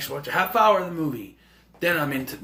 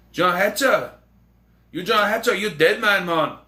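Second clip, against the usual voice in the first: gangster threat; 4 semitones higher, 4 dB louder than usual. Retold or imitated.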